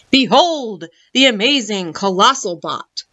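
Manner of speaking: lightly voiced showman unveiling his prize; proud shopkeeper. A narrator's reading. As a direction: present it with a touch of grandeur. Shopkeeper shows off his newest robot.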